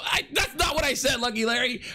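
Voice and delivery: sudden high protest; indignant shout. Real, not acted. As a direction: blurt it out, offended. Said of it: "protesting chat claim".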